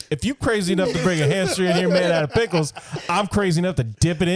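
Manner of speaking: a hint of a sassy clerk; lady's dramatic deadpan. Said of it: "the way she said it, she pauses for a second".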